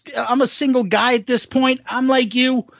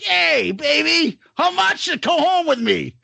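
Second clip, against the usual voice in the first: mock pickup and slap-down; 7 semitones higher than usual. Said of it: "being that, like".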